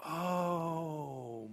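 soft, drawn-out oh; hushed moment of understanding; dawning realization. Acted. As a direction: let it sink in quietly. Moses grasps God's point.

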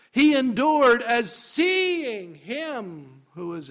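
slow, high, loud verse; soaring pulpit emphasis; emphatic proclamation. Shown as a demonstration. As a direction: stretch the verse out triumphantly.

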